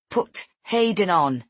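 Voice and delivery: slow words through gritted teeth. Acted. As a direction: hold back anger, teeth clenched. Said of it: "I say through gritted teeth".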